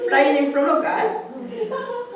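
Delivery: high, slow, laughing delight. Real, not acted. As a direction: stretch it out, laughing with joy. Laughing telling story climax.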